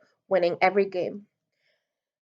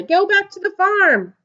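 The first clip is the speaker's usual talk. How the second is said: jeering heckle; 10 semitones higher than usual. A narrator's reading. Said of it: "shouted another".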